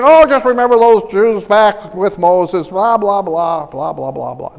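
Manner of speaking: starts loud, sinks away through the blahs; dismissive mock paraphrase. Preacher mocking a careless reading of Hebrews, dismissive. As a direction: toss it off as droning filler.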